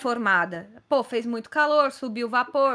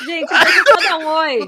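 calling out; 4 semitones higher, 11 dB louder than usual. Real, not acted. Calling out a greeting to her daughter.

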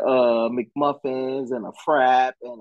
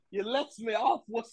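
mock grateful voice; 6 semitones higher than usual. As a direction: ham up thanks to the kind cop. Mock thanks to the cop.

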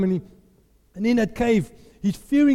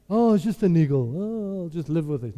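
low, sighing acceptance; resigned shrug; 4 semitones lower than usual. Acted. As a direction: give in with a weary "oh well". Voicing resigned attitude he then rejects.

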